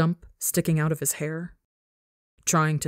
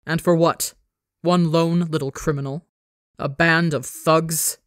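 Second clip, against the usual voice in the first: spitting contempt. Acted. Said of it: "Father spits that last word out".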